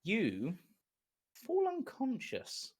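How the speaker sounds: game master setting the scene, hushed; scene-setting narration. Acted. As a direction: draw the player into the vision. GM describes the vision scene.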